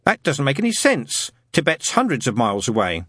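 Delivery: lightly voiced boy, stubbornly logical; Wensleydale, dogged schoolboy. Boy argues Tibet is too far, doggedly. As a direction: insist on the plain facts.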